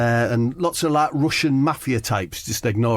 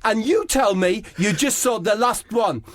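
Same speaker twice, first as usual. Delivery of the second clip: high, prim, mournful Harry Kane voice; Harry Kane fussing at the kiosk about his Sprite, voiced high and plaintive; Harry Kane impression; 11 semitones higher than usual. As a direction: whine it politely like a sulky footballer. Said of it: "It's Harry Kane".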